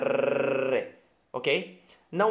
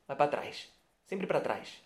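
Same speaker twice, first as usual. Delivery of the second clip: soft emphasis; 7 dB quieter than usual. Shown as a demonstration. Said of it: "O som vai pra trás da boca".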